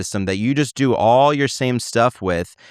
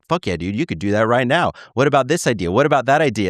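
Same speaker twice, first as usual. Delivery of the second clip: hype man; 2 semitones higher, faster than usual. Retold or imitated. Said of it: "Claude is the biggest hype man ever".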